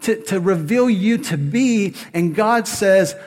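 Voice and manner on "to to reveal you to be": mock-anxious Moses objecting to God; nervous Moses. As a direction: plead like an unsure Moses asking why me. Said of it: "He's like".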